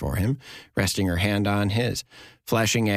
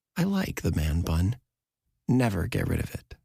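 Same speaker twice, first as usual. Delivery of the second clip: gentle, soft-spoken, soft voice. Narrator reads a woman leaning toward him across the bar, in a soft voice. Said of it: "In a soft voice".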